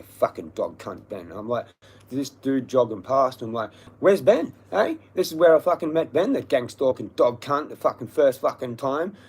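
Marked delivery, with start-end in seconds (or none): 4.0-9.1 higher, louder demanding challenge; retold angry confrontation. Speaker confronts a passing jogger about Ben, angry challenge. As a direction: accost him, voice raised and pitched up.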